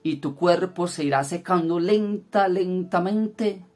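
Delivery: mild retold fury, slowing and rising at the end; retold angry curse. Daughter-in-law cursing her mother-in-law, retold angrily. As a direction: pronounce a curse in restrained rage, drawing out the last words. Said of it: "muerta de rabia".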